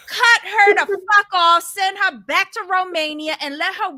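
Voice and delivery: loud indignant outburst; fed up and furious; loud angry rant; outraged. Real, not acted.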